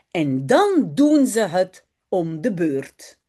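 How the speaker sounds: slow, careful reading aloud for learners; story reading. A narrator's reading. Teacher reading a Dutch story aloud to her students. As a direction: read each sentence slowly and clearly.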